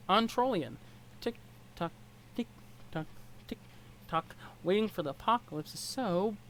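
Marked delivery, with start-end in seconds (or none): 1.2-4.3 whispered tick tock. Acted. Character idly counting time, bored.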